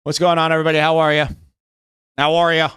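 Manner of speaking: ordinary talk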